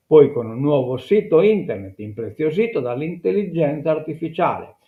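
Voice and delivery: reading an article aloud to listeners; measured newsreader delivery; news read. Acted. (lettura di notiziario)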